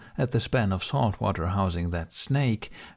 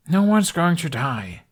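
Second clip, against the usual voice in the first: loud, slower, higher insistent shout; 8 semitones higher, 6 dB louder than usual. A narrator's reading. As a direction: shout it down, refusing the idea. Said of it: "Hiccup shouted".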